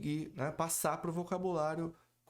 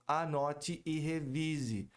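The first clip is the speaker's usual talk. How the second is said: emphatic slow; much slower than usual. Real, not acted. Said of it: "teacher stresses revising".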